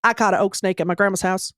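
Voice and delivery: a hint of a stoic kid from the swamp, deadpan; mild imitation of an emotionless eight-year-old boy; Southern swamp boy. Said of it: "impression of this boy".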